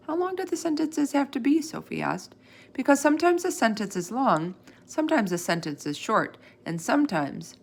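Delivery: a hint of an eager little girl questioning the teacher; eager schoolgirl. Sophie, eager girl in story.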